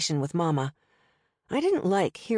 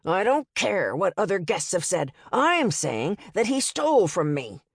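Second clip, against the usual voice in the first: yelling. Acted. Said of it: "He started yelling again".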